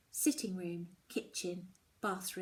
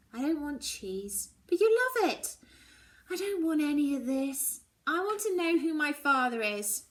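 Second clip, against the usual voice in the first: angry demand; 7 semitones higher, 7 dB louder than usual. Acted. Daughter demands father's name.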